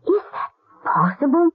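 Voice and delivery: choked, horrified question; tearful dismay. Acted. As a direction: voice catching with pity. Boy is fed nothing.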